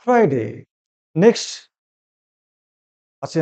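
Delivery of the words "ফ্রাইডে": ফ্রাইডে as the teacher's careful model; corrected Friday. Shown as a demonstration. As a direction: model ফ্রাইডে for learners, falling at the end. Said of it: "কি বলবি?". (ফ্রাইডে-র সঠিক উচ্চারণ দেখানো)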